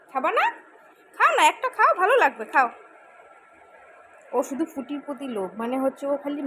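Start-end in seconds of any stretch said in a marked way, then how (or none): 0.1-2.7 high, loud pleading with a laugh; pleading coax. Real, not acted. Mother pleading with her son to eat his food. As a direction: beg him sweetly to take a bite.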